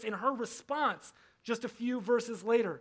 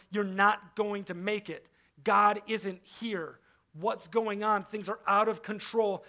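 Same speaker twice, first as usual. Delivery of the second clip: voice of fear; 4 dB louder, slower than usual. Acted. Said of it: "the screaming voice of fear".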